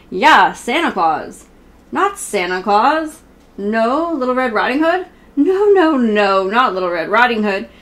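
a gentle read-aloud, half sung in places; reading to children. Acted. Reading a Sesame Street book to her viewers, sing-song read-aloud.

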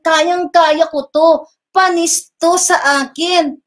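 lightly voiced smug boast, drawn out slowly; mock him bragging he can handle it easily. Mocking the rival's boast to God, a slow smug brag. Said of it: "Kaya sabi ko sa Panginoon".

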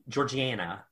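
Georgiana with "AN" as in "Anna"; spelling-based pronunciation. Shown as a demonstration. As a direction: say Georgiana as "jor-jee-AN-a". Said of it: "it looks like Georgi".

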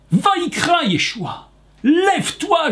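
rising to a high call; loud voice. Acted. Preacher voicing Yeshua at the bedside, loud call. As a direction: call out the command strongly. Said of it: "il dit d'une voix forte".

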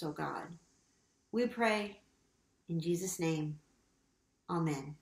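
measured, solemn confession prayer; earnest litany voice, steady rhythm. Acted. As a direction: pray it aloud for the whole congregation.

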